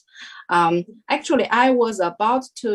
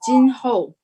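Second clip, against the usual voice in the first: called out a touch louder, drawn out; calling out a name; 4 semitones higher, 6 dB louder than usual. Retold or imitated. Devi calling the viewer's name during darshan, mild call. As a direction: call her name across the hall.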